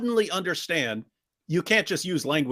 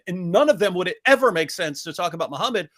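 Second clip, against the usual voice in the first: ordinary talk, nothing marked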